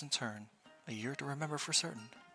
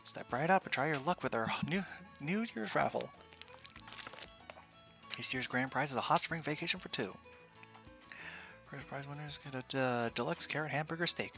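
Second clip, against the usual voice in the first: booming prize announcer; 2 semitones higher than usual. Acted. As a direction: hawk the raffle to passersby. Raffle booth barker pitch.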